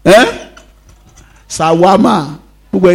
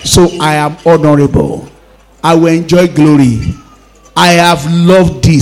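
leading a declaration; 3 semitones lower, 4 dB louder than usual. Shown as a demonstration. Pastor leading church to repeat the verse, firm. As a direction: model the words for them to echo.

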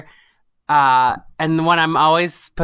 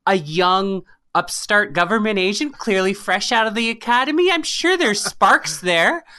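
rising, higher-pitched eager speculation; passionate; 5 semitones higher than usual. Real, not acted. Storyteller to friend about imagined game characters, passionate. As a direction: get carried away imagining her backstory. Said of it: "the passion in your voice".

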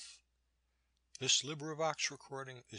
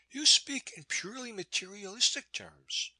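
objecting; 10 semitones higher, 5 dB louder than usual. A narrator's reading. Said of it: "she objected".

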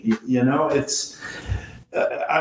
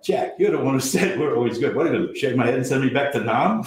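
fast teasing retort; 2 semitones higher, much faster than usual. Retold or imitated. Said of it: "and I went".

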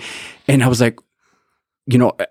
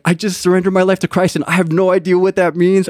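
high, breathless overwhelmed confession; pitched-up, half-laughing retelling; giddy disbelief; 8 semitones higher than usual. Retold or imitated. Telling wife, laughing, overwhelmed.

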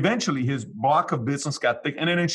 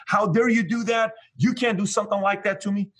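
snapping angrily; 9 semitones higher than usual. Retold or imitated. Employee snapping at his boss over the bonus split, outraged. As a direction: bite back like he's been insulted. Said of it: "He snapped at me".

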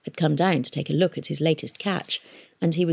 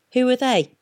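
a hint of a high, loud pirate boss; gruff mayor; 7 semitones higher, 4 dB louder than usual. A narrator's reading. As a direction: demand it like a petty tyrant. Mayor demanding.

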